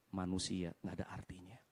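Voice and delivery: low whisper, heavy with the realization; whispered sombre conclusion; hushed realization. Real, not acted. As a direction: let it sink to a soft, low near-whisper. Preacher's sober realization, hushed.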